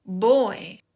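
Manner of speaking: put-on boy said slowly as English "boy"; English pronunciation. Shown as a demonstration. Teacher shows learners the English word, boy clearly pronounced. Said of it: "se pronuncia o decimos".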